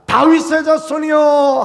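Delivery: a beggar crying out for mercy, shouted. Shown as a demonstration. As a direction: call out to be heard far off. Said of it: "큰 소리로 막 외치는 것입니다".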